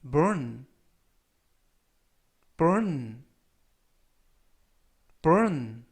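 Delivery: burn, said slowly three times for students to copy; burn을 천천히 세 번 또박또박; slow repeat-after-me. Shown as a demonstration. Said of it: "천천히 세 번씩 읽어드리고요". (따라 읽도록 천천히 세 번)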